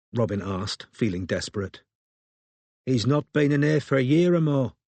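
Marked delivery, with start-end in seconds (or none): 2.9-4.8 vague. A narrator's reading. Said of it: "said the barmaid vaguely".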